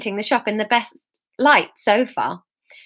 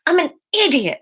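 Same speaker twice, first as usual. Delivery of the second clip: shouted; 7 semitones higher than usual. Acted. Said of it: "she shouted out loud".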